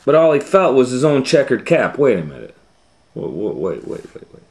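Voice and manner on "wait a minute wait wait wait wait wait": alarmed. Acted. Peddler discovers caps gone.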